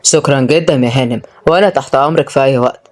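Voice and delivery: polite reply with a touch of awkwardness; embarrassed. Acted. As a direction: answer low and courteous, a little abashed. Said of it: "بس رد بإحراج".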